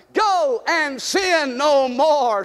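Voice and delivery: slow, measured repetition; slow refrain for the congregation to echo; slow repeat. Shown as a demonstration. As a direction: say it slowly so they follow. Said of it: "Say it with me".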